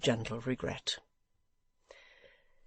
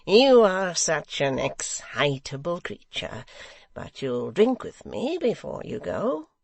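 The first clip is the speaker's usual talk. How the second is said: good-fellow raillery; 3 semitones higher, 6 dB louder, slower than usual. Acted. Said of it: "utmost good fellowship and the pleasantest raillery".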